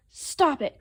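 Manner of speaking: understated acted scolding; dad crying out. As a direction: snap a mild order. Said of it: "cried Dad".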